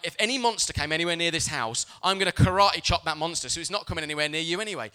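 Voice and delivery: mock-heroic vow. Dad reassuring kids at bedtime, mock-heroic and loud. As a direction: loudly play the monster-fighting hero. Dad vows to protect his children.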